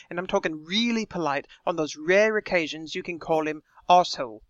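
attempted British Lister accent, slightly too posh; Listerian accent. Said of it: "how was my Listerian accent there".

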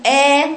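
long alif held very thin and high, "آ" overly light; "آ" stretched thin, the wrong over-light way; over-thinned hamza. Shown as a demonstration. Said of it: "لا هي شدة رقة".

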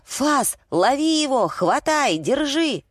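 высокие азартные команды собаке; натрави собаку криком на высокой ноте. A narrator's reading. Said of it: "заорала я". (высокие отрывистые выкрики)

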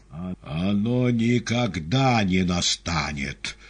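громко и медленно, с нажимом на никогда; выкрикни отказ; страшный крик. A narrator's reading. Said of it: "вдруг закричал Пилат таким страшным голосом". (страшным голосом)

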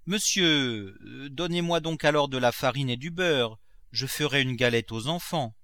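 a hint of a pleading cook; lightly acted servant's request, slightly lifted; lightly voiced servant Nanon. Servant asking her master for flour and butter, lightly voiced request.

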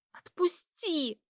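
pained hiss to let go. A narrator's reading. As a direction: hiss it out through the pain. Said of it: "зашипела я от боли".

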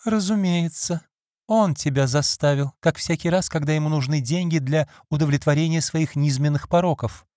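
a hint of a cold, scornful mistress; Lady Audley. Lady Audley reproaches her maid, lightly bitter.

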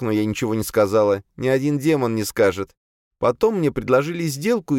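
high, deferential female servant voice; servant demoness explaining. A narrator's reading. Captive demoness justifies herself to her master, high servant voice. Azalia's voice in story.

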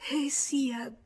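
breathy whispered giving in; murmured. Acted. Madame Walter letting Georges escort her, murmuring. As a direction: yield in a bare whisper. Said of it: "Lei mormorò".

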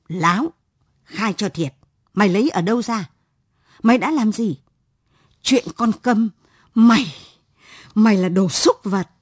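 interrogate, then spit the insult; father's fury at his son; furious father. Acted. Father confronts son's crime.

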